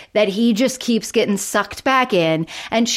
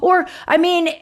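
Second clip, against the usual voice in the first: much higher put-on voice for Nick; imitating Nick; 11 semitones higher than usual. Host imitating Nick's daydreams about trucking and Mars, much higher mock voice. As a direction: play Nick dreamy and a bit goofy. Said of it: "And he's like".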